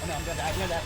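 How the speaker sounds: panicked, loud and rising; frantic fear of dying; being chased. Real, not acted. Being chased by chainsaw enemy.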